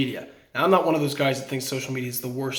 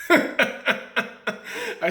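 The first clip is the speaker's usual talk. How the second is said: rueful laugh; 11 semitones higher than usual. Real, not acted. Bitter irony about lost role.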